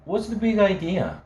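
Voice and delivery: high, irritated question; annoyed. A narrator's reading. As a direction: snap at the caller. Sally annoyed at late call.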